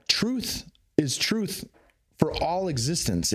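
slow, high-pitched quoted pronouncement; Paul Selig. Retold or imitated. Quoting a teaching on truth to the listener, slow proclaiming. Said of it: "like Paul Selig says".

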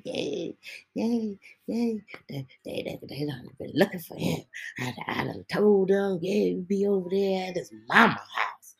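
half-whispered, mildly gleeful imitation; mock gleeful snitch. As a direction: tease her giddy tattling, lightly voiced. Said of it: "that's how she said it".

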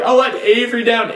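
high, fast laughing wail; mock sobbing. Son crying to his mom about his niece, high mock wail. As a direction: overwrought guilty kid.

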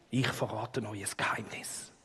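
low secretive whisper; gentle giant voice. Pretend. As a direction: hush it like a deep secret. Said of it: "mit tiefer Stimme und mit Augenbrauen so nach innen".

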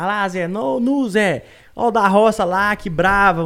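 mocking Belo Horizonte schoolkid accent; imitated Belo Horizonte accent. Bullying victim imitates schoolmates mocking him in Belo Horizonte accent. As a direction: tease the country boy in a BH accent. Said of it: "vou imitar o sotaque de B H".

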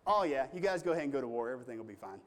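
mock-agreeable sarcastic go-ahead, quick; smart aleck. Prophet Micaiah mocking the kings with fake agreement. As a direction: say it sweetly, not meaning a word. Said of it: "'cause he was being a smart aleck".

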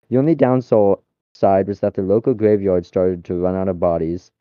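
reading a silly story aloud, steady pace; story narration. Acted. Friend reads a chatbot story to friends, storytelling voice. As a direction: tell it like a bedtime tale.

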